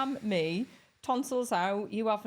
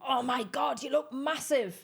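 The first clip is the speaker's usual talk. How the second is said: Irish compliment; 5 semitones higher, slower than usual. Retold or imitated. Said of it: "yous would go".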